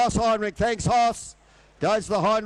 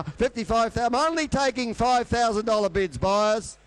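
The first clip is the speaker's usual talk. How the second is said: fast rhythmic auctioneer bid calling; frantic trading floor shouting. Acted. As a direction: rattle off the bids like an auctioneer.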